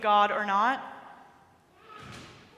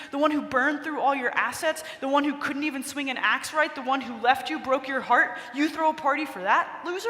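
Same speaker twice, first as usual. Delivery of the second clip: resentful tirade; 2 semitones higher than usual. Retold or imitated. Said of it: "The resentment just bubbles over".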